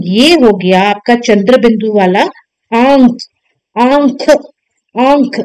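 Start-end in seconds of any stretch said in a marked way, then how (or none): 2.7-5.4 आंख with न sounded between आ and ख; nasalised pronunciation. Shown as a demonstration. Teacher drilling chandrabindu for pupils, nasalised pronunciation. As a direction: repeat आंख separately, nasalising the vowel. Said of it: "न का उच्चारण बीच में आएगा".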